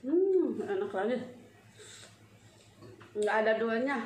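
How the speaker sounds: chewing while talking; speaking between bites; mouth full of food. Real, not acted. Seen 4: Cheeks full, jaw chewing; she mixes rice while speaking.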